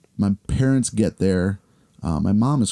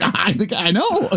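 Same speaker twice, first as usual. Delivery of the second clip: laughing reply; 10 semitones higher, slower than usual. Retold or imitated. Kid answering coach, laughing.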